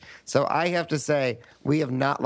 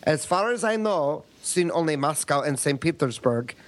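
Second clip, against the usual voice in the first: lightly put-on Russian accent reading an email; a hint of a Russian accent; mock Russian accent. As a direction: read it like a Russian, hammed-up. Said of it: "do it in a Russian accent".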